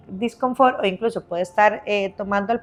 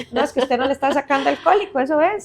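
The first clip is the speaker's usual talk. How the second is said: mock frazzled mom, higher and fast; stressed mother's voice; 4 semitones higher, faster than usual. Worn-out mom lecturing the calm mom, mock frazzled, higher and fast. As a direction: rattle it off higher and quicker like an exhausted mother. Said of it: "y la, la voz así".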